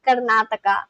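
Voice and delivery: Karnataka with a Spanish accent. Shown as a demonstration. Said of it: "like, a Spanish accent".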